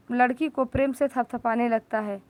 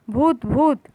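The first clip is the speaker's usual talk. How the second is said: sudden shout; 4 dB louder, slower than usual. Acted. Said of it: "कौवा एकदम से चिल्लाता है".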